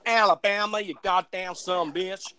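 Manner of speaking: badly faked Alabama accent, drawn out at the end; country American accent. Shown as a demonstration. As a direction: have a go at country Alabama talk. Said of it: "trying to do like that country".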